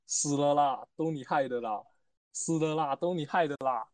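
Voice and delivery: Taiwanese Mandarin accent, coy sentence-final 啦. Shown as a demonstration. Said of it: "台湾腔".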